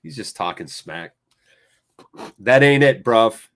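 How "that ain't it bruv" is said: louder, scolding the player; scolding a player who yells at the ref. Real, not acted. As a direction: tell him off loudly.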